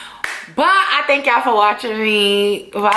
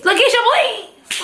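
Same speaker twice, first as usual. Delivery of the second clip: slower drawn-out "Lakeisha, please" with a higher, stretched "Lakeisha"; exasperated; 11 semitones higher, slower than usual. Retold or imitated. Fed up with Keisha, stretching out "Lakeisha, please". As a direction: drag out "Lakeisha" like you're fed up. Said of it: "repeated Lakeisha, please".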